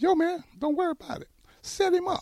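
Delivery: very high-pitched, squeaky, loud buddy voice. Retelling Mike's classic response: Mike's high-pitched voice. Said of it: "Mike talks with a real high-pitched voice when he's around his friends. And it went like this".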